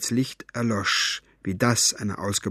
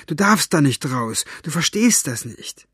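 higher, anxious warning; urgent pleading; 4 semitones higher than usual. Acted. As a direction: plead to hold someone back. Girl pleads with fairy at window.

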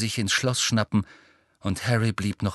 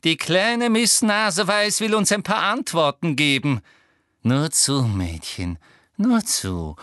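higher, patronizing; sneering Umbridge; 6 semitones higher, 3 dB louder than usual. A narrator's reading. Umbridge mocking Hermine, patronizing. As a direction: coax with sugary contempt.

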